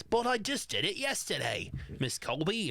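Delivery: gardener's protest. Retold or imitated. Gardener whines to boss in recap.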